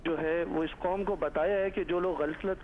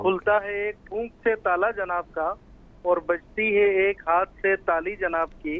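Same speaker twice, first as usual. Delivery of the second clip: measured satirical couplet, line by line; verse recitation; 6 dB louder than usual. Acted. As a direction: recite it like a poem at a mushaira.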